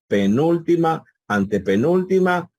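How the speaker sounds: penúltima, antepenúltima pitched high; emphatic teaching count; syllable count. Shown as a demonstration. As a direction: tick off each syllable name. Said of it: "counting syllables aloud".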